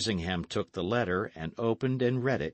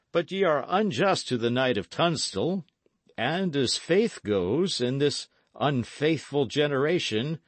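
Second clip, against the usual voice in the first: lightly voiced lord making a firm defence; higher, declaiming nobleman; insistent Earl; 5 semitones higher, 4 dB louder than usual. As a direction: rebut formally, stressing the loyalty. Earl defends Sir Daniel.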